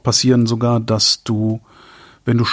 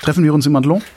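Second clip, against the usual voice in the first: put-on French accent; 4 semitones higher, faster than usual. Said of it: "Laurence hat immer gesagt".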